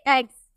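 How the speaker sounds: "एग्स" ending in a voiced Z sound. Shown as a demonstration. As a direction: say "एग्स" as "eggz". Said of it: "इसलिए इसमें जौ का उच्चारण किए".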